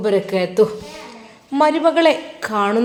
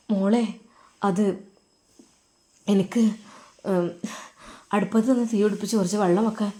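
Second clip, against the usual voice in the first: softer, halting, then rushed; stall, then blurt the excuse fast; fumbling excuse; 7 dB quieter, faster than usual. Acted. Mother-in-law making up an excuse to her daughter-in-law, soft and halting.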